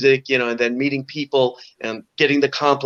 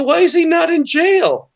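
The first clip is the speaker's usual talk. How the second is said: incredulous question; 13 semitones higher, 4 dB louder than usual. Retold or imitated. Retold disbelief at the bar.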